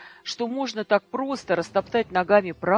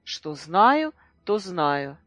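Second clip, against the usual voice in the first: higher, spiteful jeering; mocking and angry; 5 semitones higher than usual. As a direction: sneer every word at her. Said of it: "колючие, злые, глумливые".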